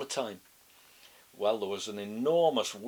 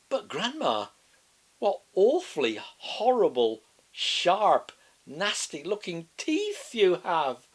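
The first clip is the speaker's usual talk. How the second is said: put-on high, louder, slowing child; alarmed little girl; 7 semitones higher, 8 dB louder, slower than usual. A narrator's reading. Girl seeing the teeth, high alarmed child. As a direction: say it with growing alarm.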